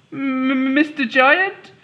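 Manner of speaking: high, timid, polite small voice; polite little girl. Acted. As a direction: ask the giant very politely. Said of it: "she asked politely".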